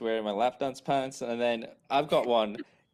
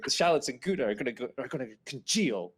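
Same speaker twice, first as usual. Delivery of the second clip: fast, a touch exasperated, rattling it off; rattled off, exasperated; faster than usual. Retold or imitated. Schmidt rattles it off at Jess, mildly exasperated. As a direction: rush through it like the omelet is ruining. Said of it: "he just rattles that off".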